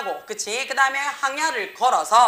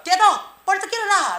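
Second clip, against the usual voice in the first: loud, high-pitched wake-up yell; acted shout; 9 semitones higher, 7 dB louder than usual. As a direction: shout it as if shaking someone awake by the shoulders. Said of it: "어깨를 막 흔들면서 소리 질렀어". (흔들어 깨우듯 높고 크게 외치기)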